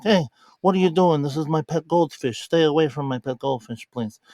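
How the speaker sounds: mock Brando mob boss guarding his pet goldfish; Marlon Brando. Crime lord warning intruders off his goldfish, lightly voiced Brando mafioso accent. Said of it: "gave him a little bit of a Marlon Brando accent".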